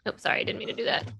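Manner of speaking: quick whispered apology; fast muttered aside. Real, not acted. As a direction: mutter it fast under breath.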